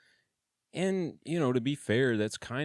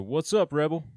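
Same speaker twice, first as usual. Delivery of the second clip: higher, louder call down the run; raised holler between cells; 9 semitones higher, 7 dB louder than usual. Retold or imitated. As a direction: holler it to a cell far off. Calling down the cell run.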